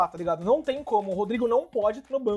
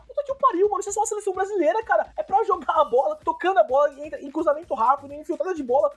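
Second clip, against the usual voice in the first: escalating comedy rant; 5 semitones higher than usual. Real, not acted. Exasperated rant at team.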